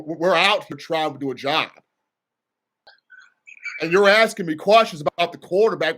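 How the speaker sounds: a light take on a grumpy head coach; Nick Saban impression. Head coach grumbling at media questions, lightly imitated irritation. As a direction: complain to reporters in a weary, irritated coach voice. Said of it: "I'm actually working on Coach Saban".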